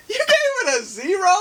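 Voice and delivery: high-pitched shocked question, rising at the end; incredulous. Real, not acted. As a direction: squeak it out in disbelief. Shocked at co-host's zero score.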